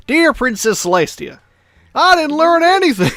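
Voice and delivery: squeaky mock pony letter; imitating a cartoon pony. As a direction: chirp it like a pony writing to her princess. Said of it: "Love the way she says it".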